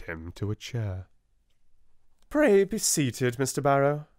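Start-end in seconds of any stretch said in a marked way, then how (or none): 2.3-4.1 stiff headmistress. A narrator's reading. Miss Minchin, stiff headmistress.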